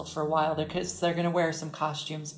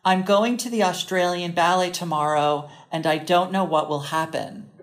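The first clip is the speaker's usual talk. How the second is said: American accent; 4 dB louder than usual. Shown as a demonstration. Setting a phrase for co-host to attempt, American accent. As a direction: demonstrate it in a clear American accent. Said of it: "I'm gonna say it in an American accent".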